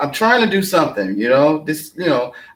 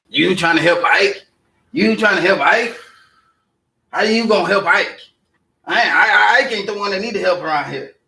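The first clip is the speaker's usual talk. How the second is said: offended, incredulous comeback with raised pitch; Ike, indignant; 5 semitones higher than usual. Acted. Ike scoffing at someone offering to help him, indignant. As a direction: throw the offer back as an insult.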